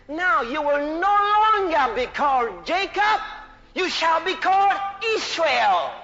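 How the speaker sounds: ringing pulpit proclamation; forceful sermon declaration; emphatic preaching. Acted. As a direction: proclaim it as God's decree. Preaches God's words to Jacob.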